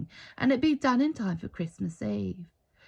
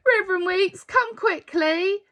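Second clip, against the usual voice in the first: higher, louder urgent plea to hurry; urgent call; 11 semitones higher, 7 dB louder than usual. A narrator's reading. Caretaker at the door urging the reverend to come, urgent and alarmed. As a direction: call the pastor in a rush of alarm. Caretaker bursts in with bad news.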